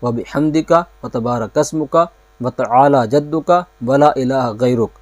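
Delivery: measured, careful recital of the opening praise; slow prayer recitation. Shown as a demonstration. Teacher showing students the thana, slow recital. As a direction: recite it slowly, word by word. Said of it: "ثنا کسے کہتے ہیں؟".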